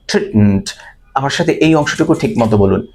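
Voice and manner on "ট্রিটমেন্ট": "ট্রিটমেন্ট" with the "মেন্ট" vowel swallowed; short ending. Shown as a demonstration. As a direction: say "ট্রিটমেন্ট" as "treet-mnt". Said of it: "উচ্চারণটা খুব shortly বলতে হবে". ("ট্রিটমেন্ট" শেষে ছোট "ম্ন্ট")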